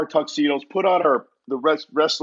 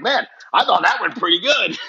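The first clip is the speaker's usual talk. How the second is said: high, amused and laughing through it; mock-proud, laughing at himself; laughing brag; 5 semitones higher than usual. Telling the boss backstage, a laughing mock-proud boast. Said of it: "I'm like".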